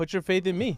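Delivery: delivery laced with sarcasm. Mocking a central bank chief taking credit: sarcastic Jerome Powell impression. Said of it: "obviously, I'm being sarcastic".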